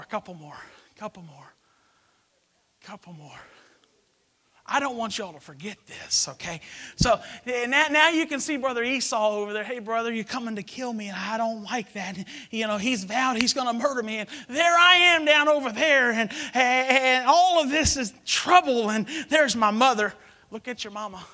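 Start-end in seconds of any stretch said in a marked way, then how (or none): 0.0-3.4 fading to a whisper. Real, not acted. 9.6-20.1 Jacob voice. Acted. Voicing Jacob on ladder.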